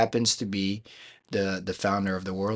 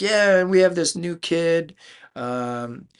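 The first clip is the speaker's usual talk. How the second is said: lightly voiced announcer, pitched up; banquet announcer; 5 semitones higher, 4 dB louder than usual. Announcer presenting Rookie of the Year, lightly imitated. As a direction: introduce the newcomer in a raised voice.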